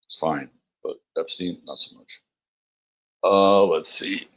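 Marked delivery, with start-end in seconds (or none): 0.1-2.2 a little secret aside under the breath; whispered aside. Real, not acted. To the chat, a whispered punchline aside. Joking aside about Epstein.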